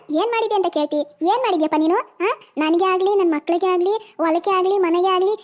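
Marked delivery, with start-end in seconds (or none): 1.9-5.3 each grievance drawn out slowly; slow bitter listing. Acted. Wife slowly lists her grievances to her husband, drawn out. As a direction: spell out every wrong, slowly and bitterly.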